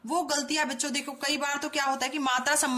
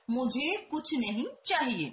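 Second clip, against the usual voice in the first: slow careful reading. Shown as a demonstration. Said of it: "सही हम कैसे बना सकते हैं".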